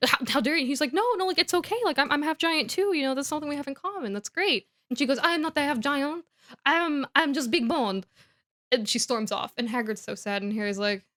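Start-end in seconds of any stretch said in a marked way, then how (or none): 0.1-0.6 higher, affronted gasp of a question; mock offended. Headmistress to Hagrid after half-giant remark, mock offended. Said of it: "she gets so offended". 0.9-4.7 higher, hurried mock reassurance; eager reassurance. Hagrid to offended headmistress, imitated eager reassurance. 5.2-8.1 higher, emphatic haughty protest; mock offended denial. Headmistress denies being half giant, mock offended. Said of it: "she gets so offended".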